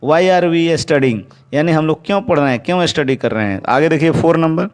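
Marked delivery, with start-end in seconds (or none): 0.1-1.2 very slow, word by word, clearly spaced; slow dictation. Shown as a demonstration. Teacher dictating to the class, very slow and clear. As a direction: spell it out slowly for students to write. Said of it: "teacher dictates the English sentence".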